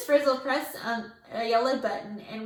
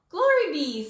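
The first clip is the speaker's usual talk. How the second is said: bright, loud happy exclamation; happily; 5 semitones higher, 6 dB louder than usual. A narrator's reading. Teacher delighted by the bees, higher and louder happy cry. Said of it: "said the Fritz happily".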